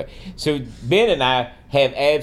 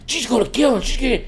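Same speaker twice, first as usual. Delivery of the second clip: very high-pitched mock fan frenzy; screaming fan hype; 12 semitones higher, faster than usual. Friend predicting a knockout, wildly excited. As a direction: imitate a fan sure of victory. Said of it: "they were screaming".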